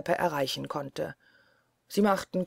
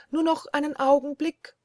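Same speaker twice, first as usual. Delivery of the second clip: pleading wife; 9 semitones higher, 3 dB louder than usual. Acted.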